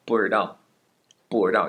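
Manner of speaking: 不知道 said fast with zhi replaced by an r sound; 不知道 slurred quickly into bu-r-dao; erhua swallowing zhi. Shown as a demonstration. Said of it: "completely replace it with an 儿化音".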